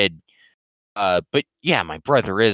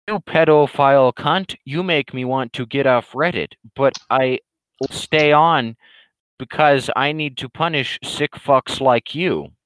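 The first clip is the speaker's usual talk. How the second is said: ranting troll; 3 semitones higher than usual. Acted. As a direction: drag out the troll's rant with mock outrage. Troll insulting in chat.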